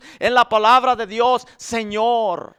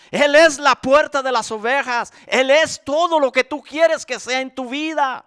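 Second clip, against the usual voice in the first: fervent preaching; 3 semitones higher than usual. Real, not acted. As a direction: build the list with fervor. Predica con fuerza. (predicación ferviente, en crescendo)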